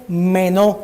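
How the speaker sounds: "menó" said slowly with weight on its E; stress on the E. Shown as a demonstration. Preacher teaching the Greek word, stress on the e of "menó". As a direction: lean on the e of "menó". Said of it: "con acento en la E".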